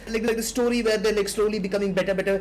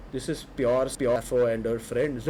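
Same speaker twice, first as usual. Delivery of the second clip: dawning realisation; 7 semitones lower, 4 dB quieter than usual. Retold or imitated. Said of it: "slowly I was like".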